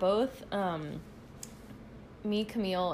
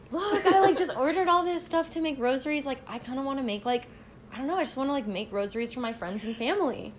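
excited; 4 semitones higher, 3 dB louder than usual. Retold or imitated. Retelling excited rosary plan to roommate.

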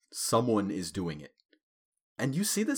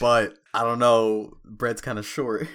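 mock sheepish friend voice; 2 semitones higher, 9 dB louder than usual. Mock voicing of S1 to driver.

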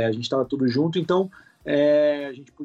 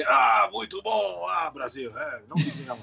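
Gilberto Barros impression. Host reacting to his impersonator, mild mock impression. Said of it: "o cara do Pânico te imita".

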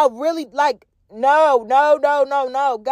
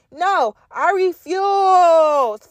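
drawn out refusal; 4 semitones higher, 4 dB louder, much slower than usual. Real, not acted. Refusing old exes.

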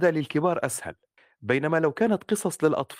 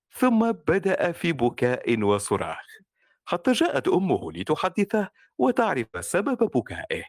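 put-on joyful children's story. Shown as a demonstration. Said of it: "الأطفال يجب أن تخاطبهم بفرح".

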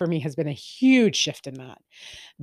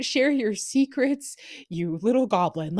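teasing goblin jab; 6 semitones higher than usual. Acted. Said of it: "that's not nice".

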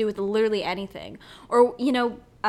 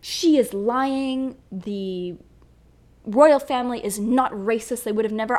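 mock doubter. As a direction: sneer at the royal defenders. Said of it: "people who are like".

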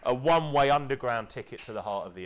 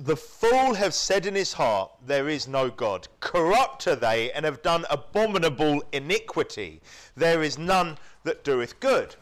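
scripture reading. Acted. Preacher reading Psalm fifty-three aloud to listeners, proclaiming.

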